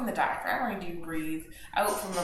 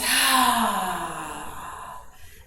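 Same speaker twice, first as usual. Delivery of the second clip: long, audible sigh out; exhale sigh; 4 dB louder than usual. Shown as a demonstration. Teacher sighs out the exhale with the class. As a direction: release the breath with a sigh. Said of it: "Exhale, side out".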